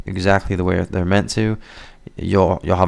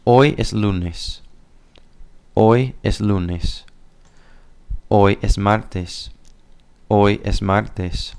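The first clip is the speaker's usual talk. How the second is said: slow, careful model sentences to repeat; slow teaching model. Shown as a demonstration. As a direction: pronounce each sentence slowly for learners. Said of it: "listen and practice, saying today is".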